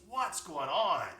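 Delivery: lightly voiced bear, demanding to know; a hint of a roar in it; slightly roaring bear. A narrator's reading. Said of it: "the bear roars a little bit".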